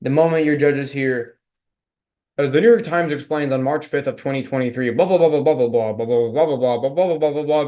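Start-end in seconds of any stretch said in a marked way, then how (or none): 2.4-7.7 droning mock newsreader, running on without a break; monotone news voice. Shown as a demonstration. Coach showing debaters what bores judges, monotone news voice. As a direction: drone through it like a monotone news anchor. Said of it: "monotone, like, news, news voice".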